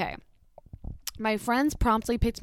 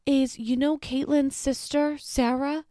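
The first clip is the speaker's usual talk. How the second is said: imitated excited mother, higher pitched; gushing mother; 6 semitones higher than usual. Mother remarking on a lookalike to her daughter, imitated gushing. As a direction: pitch it up like a chatty customer. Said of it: "then the mother was like".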